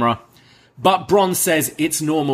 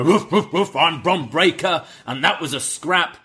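a higher mock tough-guy bark with a laugh in it; hammed-up barking champion; mocking Bron's bark; 4 semitones higher than usual. Tag champs mocking Bron's gruff bark. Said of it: "They're kind of mocking Bron, uh, how he talks".

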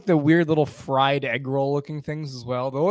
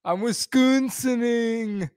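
slow, higher drawn-out "Wisconsining"; mock Midwestern accent; 8 semitones higher, slower than usual. Guest joking in a put-on Midwestern accent, slow and high. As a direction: stretch it like a Badger State local. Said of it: "Midwestern accent".

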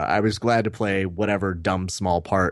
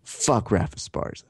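muttered aside; 3 dB quieter than usual. Retold or imitated. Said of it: "he just goes".

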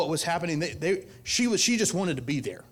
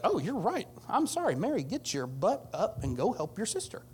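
imagined apologetic Jesus; 6 semitones higher than usual. Acted. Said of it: "Martha is expecting for Jesus to be like".

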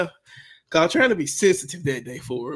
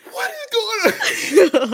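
confused mother; 4 dB louder, much slower than usual. Retold or imitated. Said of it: "Mama like".

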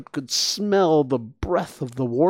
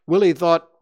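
plain reading voice

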